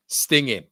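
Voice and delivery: "Stinging" with no G sounded, ending on N; hard N ending. Shown as a demonstration. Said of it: "a hard N at the end".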